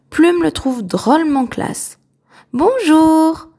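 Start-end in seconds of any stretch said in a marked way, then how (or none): 2.5-3.5 a bright, much higher and louder "Bonjour"; smiling hello. A narrator's reading. Cabin boy greets the castaway, smiling. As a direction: greet him with a smile in the voice. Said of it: "sourit le garçon".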